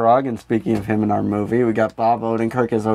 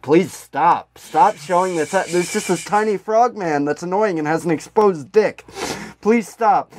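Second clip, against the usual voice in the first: pleading complaint; 3 semitones higher than usual. Retold or imitated. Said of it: "people kept writing into the television stations".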